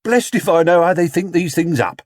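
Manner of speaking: a delighted onlooker; man in crowd. Acted. Man in the crowd chatting to Mrs Brown, amused.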